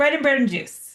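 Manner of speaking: fast, words running together. Naming a sandwich-and-juice deal, the name said fast. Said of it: "you need to say it fast".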